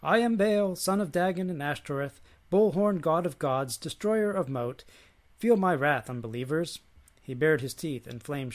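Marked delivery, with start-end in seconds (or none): 0.0-6.8 loud, high, booming proclamation; grand declamation, punched phrase by phrase; roared. A narrator's reading. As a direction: roar it out like a god announcing his titles. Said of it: "Taking a deep breath, Baal turned to Yahweh's believers and roared".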